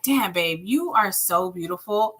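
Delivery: soft, sincere compliment to a wife. Pretend. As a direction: say it gently and mean it.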